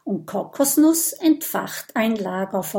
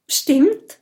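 grinning; 7 semitones higher, 5 dB louder than usual. A narrator's reading. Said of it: "grinst Oskar".

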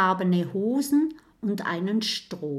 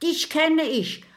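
higher, flustered, stammering; startled ghost; 5 semitones higher, 3 dB louder than usual. Acted. Startled ghost stammering at the dragon. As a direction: caught off guard, fumbling for the name. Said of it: "Die Gestalt erschrickt".

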